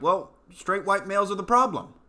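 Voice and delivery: high smug mocking voice; mock student. Students answering what it all comes down to, high smug mock. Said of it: "And they're like".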